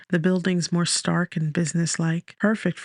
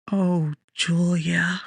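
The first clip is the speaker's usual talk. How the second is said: sorrowful sigh; much slower than usual. A narrator's reading. Grieving narrator sighs name.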